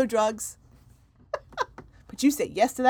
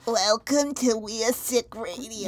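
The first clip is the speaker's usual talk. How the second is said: creepy voice; slower than usual. Acted. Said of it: "That's why I used that creepy voice".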